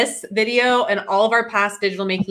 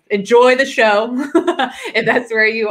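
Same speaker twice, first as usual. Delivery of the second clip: laughing; 3 semitones higher, 4 dB louder than usual. Real, not acted. Laughing while telling viewers.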